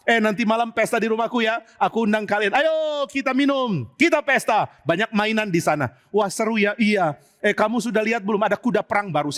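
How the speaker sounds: carefree Amnon. Acted. Amnon invites to party.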